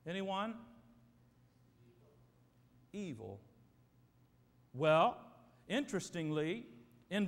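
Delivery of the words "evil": low and dark. Acted. Answering what wicked means.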